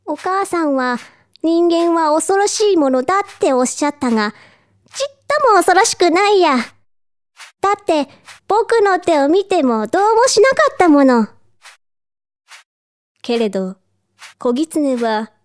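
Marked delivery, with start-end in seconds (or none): 0.0-11.3 put-on higher, lively childlike voice; cub's higher-pitched musing; little fox cub. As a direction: reason aloud like a confident little boy. Fox cub reasons to himself.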